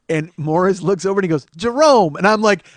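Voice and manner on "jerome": high, loud summons; acted holler to someone nearby; calling out. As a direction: call a name across the room. Acts Morris calling someone over.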